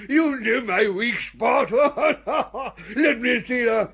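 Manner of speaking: words spoken through a laugh; chuckling as he speaks. Acted. Flattered and amused.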